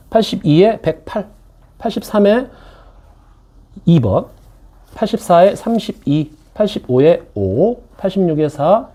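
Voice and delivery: slow, steady answer-key reading. Acted. Teacher reading the answer key to online students, slow and steady. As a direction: call out each number and answer, slowly.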